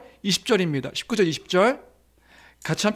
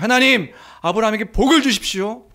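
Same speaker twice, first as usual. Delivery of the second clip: louder fervent plea; raised prayer; 4 dB louder than usual. Acted. Priest prays for Abraham, raised fervent plea. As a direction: lift the prayer up loudly. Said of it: "선포해주고 있는".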